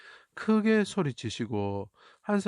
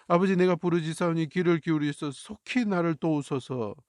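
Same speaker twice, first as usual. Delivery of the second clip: crying out; 4 semitones higher than usual. Acted. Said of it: "하고 부르짖는 모습이 보여야 됩니다".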